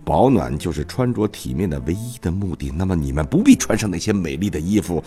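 put-on measured stage recitation of an old king; King Lear monologue. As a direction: declaim it like a wronged old king. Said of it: "下面我给大家朗诵一段独白吧".

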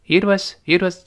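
"It was" joined, T held into W; lightly linked. Shown as a demonstration. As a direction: lightly run "It was" together. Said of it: "轻轻的有个连读啊".

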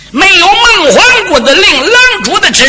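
sing-song the refusal at him; mocking refusal. 守将拒绝放行. (拖长腔的嘲弄)

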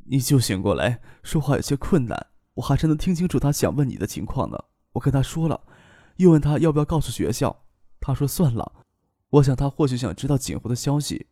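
quiet, sorrowful recounting; a widow's softened voice, lightly acted grief; subdued grief. Weeping widow recounts uncle's death.

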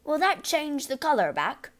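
high, worried question; anxious. A narrator's reading. Father asking daughter for hope, anxious. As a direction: ask it in nervous hope. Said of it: "the father asked anxiously".

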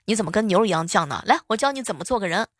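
angry auntie. Retold or imitated. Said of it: "大妈当时就火了".

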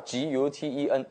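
"G U T E N" spelled out with English letter names; separated letter-by-letter reading of "G U T E N". Shown as a demonstration. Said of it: "用英文念法".

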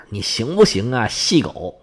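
low, soft mocking internet taunt; meme taunt. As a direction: tease like the online meme. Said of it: "网上很火的有一种说法". (低沉轻声地调侃网络梗)

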